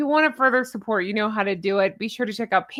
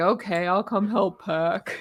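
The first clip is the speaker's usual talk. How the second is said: slow, drawn-out character voice, words stretched out slowly; 2 semitones lower, 4 dB quieter than usual. Retelling a sitcom scene, doing a Ross impression. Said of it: "That's my Ross impression".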